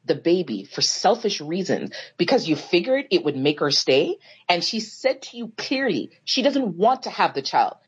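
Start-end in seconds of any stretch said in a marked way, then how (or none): 0.1-4.2 slow, low, mocking read-back; reading his words back. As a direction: drag his own words out at him. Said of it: "I'm gonna quote you".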